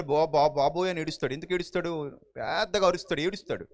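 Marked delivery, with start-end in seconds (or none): 0.0-0.9 mock scared yell. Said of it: "ఇంత గొంతు పెట్టుకుని అరుస్తాడు".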